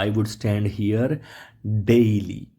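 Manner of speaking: each word spelt out slowly; slow dictation pace. Shown as a demonstration. Teacher dictating to the class, slow. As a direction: read it slowly for the class to copy. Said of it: "તમે કહેશો".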